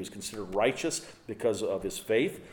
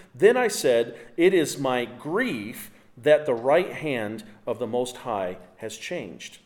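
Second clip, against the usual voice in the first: impassioned scripture reading; 2 semitones higher, 4 dB louder than usual. Acted. Reads the psalmist's lament.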